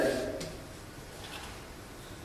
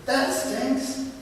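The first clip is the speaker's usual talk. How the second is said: higher, half-laughing oh crap; laughing dismay; 5 semitones higher than usual. Retold or imitated. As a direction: laugh through the bad news. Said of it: "But then I started thinking".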